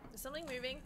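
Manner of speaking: very soft, under the breath; hushed noticing. Real, not acted. Player spots something moving, hushed. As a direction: say it softly, almost to yourself. Spots movement, says it twice differently.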